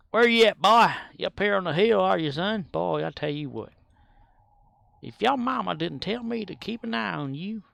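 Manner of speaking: put-on high, loud hollering for a lost kid; calling out for the boy. Game character hollering for a boy gone missing. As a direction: holler up the hill like a worried uncle.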